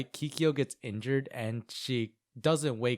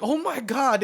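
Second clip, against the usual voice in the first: higher, louder startled recoil; mock alarm; 10 semitones higher, 5 dB louder than usual. Miroku backing away from Kagome, mock alarm. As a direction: back off in exaggerated dread.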